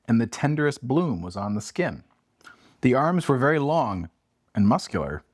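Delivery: measured, slowed storybook narration; story reading. Acted. Host reads the ghost passage to Abby, hushed storytelling. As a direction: read the passage with gentle suspense.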